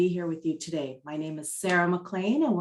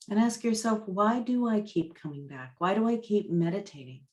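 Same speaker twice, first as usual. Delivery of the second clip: guided meditation. Real, not acted.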